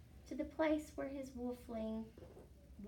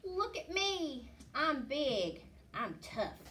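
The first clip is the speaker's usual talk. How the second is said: 1 boasting pup; 4 semitones higher, 3 dB louder, slower than usual. Acted. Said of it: "he would growl".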